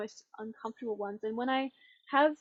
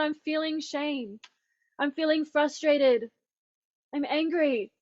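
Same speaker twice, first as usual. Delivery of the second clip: slow, loud, raised-pitch declarations; emphatic naming; 4 semitones higher, 8 dB louder, slower than usual. Retold or imitated. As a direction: declare each feeling slowly and forcefully. Acted calling out of feelings.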